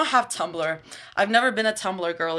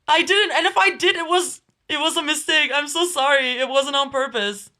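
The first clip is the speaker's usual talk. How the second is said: higher-pitched flustered excuse; flustered apology; 4 semitones higher than usual. Real, not acted. Streamer apologizing to Sal for an accidental request, flustered. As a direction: plead that it was an accident.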